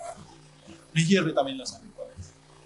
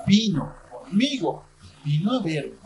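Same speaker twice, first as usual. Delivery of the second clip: ordinary talk, nothing marked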